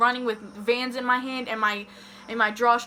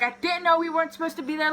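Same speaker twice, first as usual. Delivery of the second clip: higher, hurried retold excuse; mock tearful pleading; 5 semitones higher, faster than usual. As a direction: imitate crying to mom on the phone. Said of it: "I'm crying. I'm on the phone".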